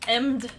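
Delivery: "Emmed" said with an M for "and"; misspelling read out. Shown as a demonstration. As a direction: read the typo "Emmed" as written, M sound before the D. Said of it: "with an M instead of an N".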